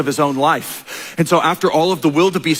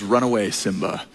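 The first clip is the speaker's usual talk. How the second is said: lower, softer sly villain voice; 5 semitones lower, 4 dB quieter than usual. Retold or imitated. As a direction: croon it low like a scheming uncle. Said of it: "He says".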